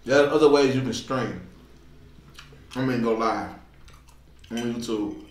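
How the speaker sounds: speaking between bites; talking while chewing. Real, not acted. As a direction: mouth partly full of food. Seen 1: fork to mouth mid-speech, talking around food.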